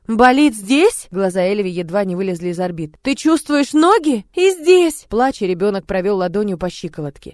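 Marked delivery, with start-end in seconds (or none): 0.1-1.1 slow, high, loud disbelief; astonished question. Acted. Maid amazed the paralysed girl feels pain. 3.0-5.0 slow, high, loud astonishment; rising wonder and shock; amazed. Acted. Maid stunned that the girl feels her legs.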